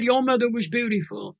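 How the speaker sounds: moved almost to crying; tearful. Retold or imitated. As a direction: let the tears into the words. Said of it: "I'm gonna cry now".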